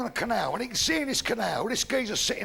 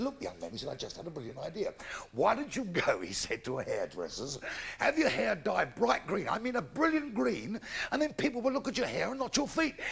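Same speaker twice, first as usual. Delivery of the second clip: lower, quieter pompous vicar; deep vicar voice; 3 semitones lower, 5 dB quieter than usual. Acted. Comedian voicing the vicar low to the sad man. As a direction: play the vicar low and hushed, full of advice.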